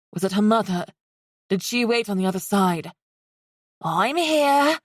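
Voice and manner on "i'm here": put-on high light girl voice; small bright girl voice; light feminine voice. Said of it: "a light feminine voice said".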